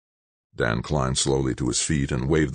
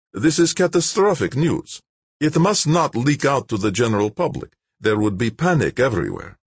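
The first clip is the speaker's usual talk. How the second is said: higher, louder, self-satisfied bureaucrat; smug official Malik; 10 semitones higher, 4 dB louder than usual. A narrator's reading. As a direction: announce the shutdown coolly, pleased with yourself. Malik's voice held.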